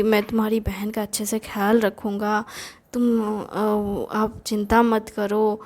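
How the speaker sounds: retold gentle promise, lightly voiced; lovingly reassuring. Brother-in-law promising to care for the sister, mildly affectionate. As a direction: reassure him with a touch of affection. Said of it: "मुझे बड़े प्यार से बोलता था".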